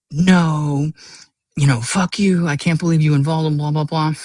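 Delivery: lightly acted indignant outburst; mock pissed off. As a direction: imitate an annoyed friend brushing you off. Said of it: "really pissed off".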